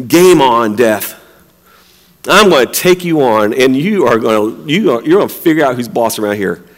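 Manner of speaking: low, understated dare to an enemy; tough challenge. Retold or imitated. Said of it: "he's got this attitude".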